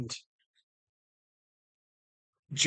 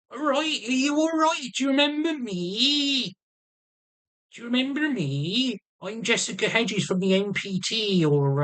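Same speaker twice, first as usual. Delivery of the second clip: much higher, lilting put-on voice of his friend; imitating Jess; 8 semitones higher than usual. Man imitating his carer greeting the psychiatrist, much higher. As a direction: chirp it high like a cheerful carer. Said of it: "Jesse's like".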